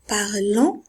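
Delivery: "parlant" with a nasal second syllable; sounded -ent ending. Shown as a demonstration. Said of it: "adverbe et non pas un verbe conjugué".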